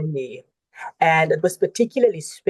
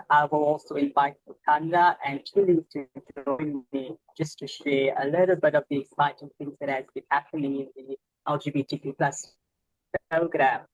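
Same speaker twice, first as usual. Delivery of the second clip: choppy, breaking-up audio; glitchy robotic call; 3 dB quieter, faster than usual. Real, not acted. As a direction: voice cutting out on a bad connection. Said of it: "your audio is breaking up".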